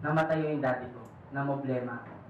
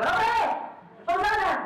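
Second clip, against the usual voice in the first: mock tired complaint; 11 semitones higher than usual. Tired commuter acted out.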